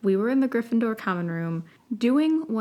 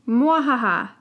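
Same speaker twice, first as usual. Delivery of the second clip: mad scientist; 3 semitones higher, 5 dB louder than usual. Acted. The speaker correcting the laugh.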